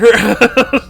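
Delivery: high loud burst of laughter; delighted laugh. Real, not acted. Delighted by the story ending.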